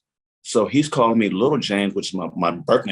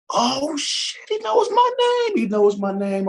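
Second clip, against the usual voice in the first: much higher squeaky starstruck panic; high pitched freaking out inner voice; panicked kid voice; slower than usual. Retold or imitated. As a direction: squeal it like a kid meeting his hero. Like a little kid.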